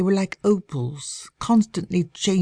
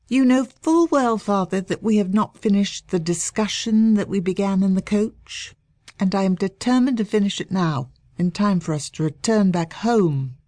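put-on headstrong young lady; 4 semitones higher than usual. Daughter argues with father.

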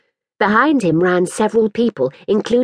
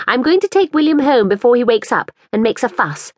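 put-on a higher, anxious young mother asking politely; lightly voiced fretful mother; 6 semitones higher than usual. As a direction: plead a little for the ball back. Woman character's voice.

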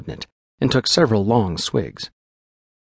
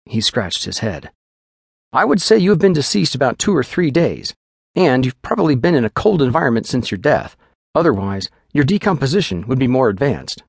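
quick, businesslike physician giving orders; lightly voiced clinical doctor; brisk doctor; 3 semitones higher than usual.

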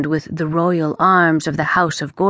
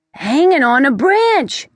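pleased; 9 semitones higher, 5 dB louder than usual. Acted. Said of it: "Marlin sounded pleased".

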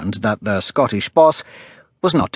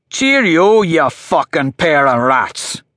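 higher, louder Scottish sneer, slowing on the insult; contemptuous farewell; 4 semitones higher, 4 dB louder, slower than usual. Acted. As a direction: spit out the goodbye with scorn. Killer's parting words before shooting.

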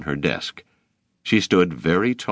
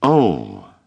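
gasped; 5 dB louder than usual. A narrator's reading. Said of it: "David gasped".

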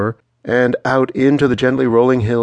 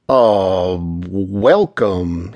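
put-on easygoing Georgia accent; Southern drawl from Georgia; sweet Georgia drawl; 3 semitones lower, much slower than usual. A narrator's reading. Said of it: "in that sweet Georgia drawl".

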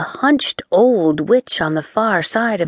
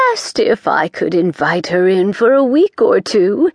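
lightly voiced fussy village witch, higher; a hint of a flustered witch introducing grandma; Missus Cringe voice; 3 semitones higher than usual. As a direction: chatter like a nervous busybody witch.

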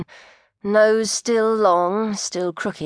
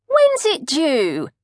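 put-on much higher, solicitous older woman's voice; concerned coat check lady asking a fainting pregnant woman; kindly coat check lady; 8 semitones higher, 3 dB louder, slower than usual. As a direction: fuss over her like a kindly auntie.

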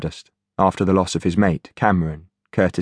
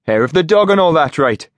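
rough high Geordie growl; 8 semitones higher, 4 dB louder than usual. Acted. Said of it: "growled Finch".

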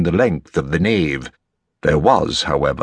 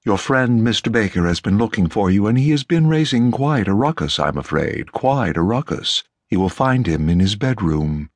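lightly voiced formal, fussing butler; relieved butler; 2 semitones higher than usual. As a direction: report the trouble with discreet concern.

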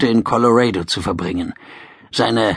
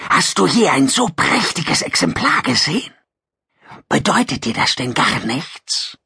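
hissing lizard voice; 4 semitones higher than usual. Acted.

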